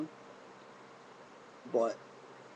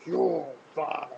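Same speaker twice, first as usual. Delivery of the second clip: imagined firing; much slower than usual. Pretend. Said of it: "Triple H at least say".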